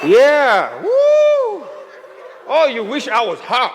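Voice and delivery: high, loud mock outraged wife; hammed-up jealous wife reading the text; furious wife. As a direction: squeal then snap like a wife catching him out. Wife reading misspelt SMS.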